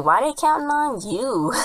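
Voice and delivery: high, slow teasing question; mock incredulous. Retelling Ernie's jab, high and teasing. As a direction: pitch it up in playful disbelief.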